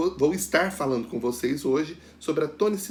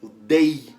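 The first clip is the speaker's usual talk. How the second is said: O dei with dei punched loud; loud, firm dei as the answer; stressed syllable alone; 7 dB louder than usual. Shown as a demonstration. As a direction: give dei on its own, louder. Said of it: "a gente pronuncia com mais força".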